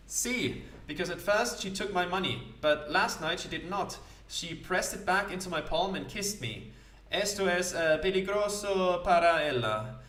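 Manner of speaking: dreamy sailor musing about an opera; a hint of a wistful Spanish seaman. Felipe tells of his love.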